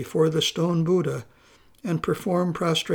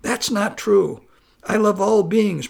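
protesting; 3 semitones higher, 4 dB louder than usual. Acted. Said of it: "protested Pusol".

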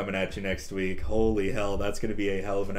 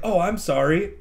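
lightly imitated woman's voice, pitched higher; imitating her apology; 5 semitones higher, 4 dB louder than usual. Retelling her texted apology about Spotify, higher imitating voice. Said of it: "And she's like".

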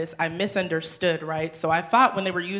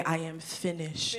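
doomed Isaiah; 8 dB quieter, slower than usual. Pretend. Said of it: "You immediately say".

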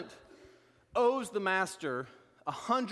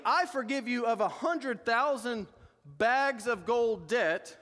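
indignant master; 3 semitones higher than usual. Acted. Master rebukes unforgiving servant.

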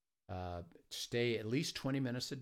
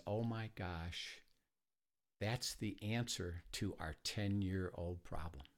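slow, soft, choked-up retelling of the breakthrough; tearful retelling; 3 dB quieter, slower than usual. Retold or imitated. Wife reading the verses, mildly tearful and slow. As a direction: soften and slow down as if near tears. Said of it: "she starts crying".

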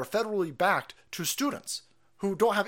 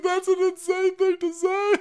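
high incredulous outburst; 7 dB louder than usual. Real, not acted. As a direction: exclaim it in disbelief. Reacting to outrageous quote.

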